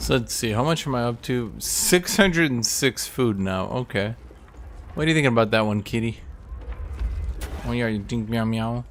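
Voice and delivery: squeaky kitty voice. Retold or imitated. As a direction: squeak it out like a tiny kitten. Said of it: "Kitty's like".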